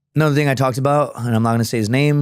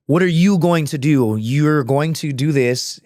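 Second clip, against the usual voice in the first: slightly raised, deliberate emphasis; firm insistence; 4 semitones higher, slower than usual. Retold or imitated. Former subordinate taking charge of his old leader, firmly insistent. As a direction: press each word as a firm instruction.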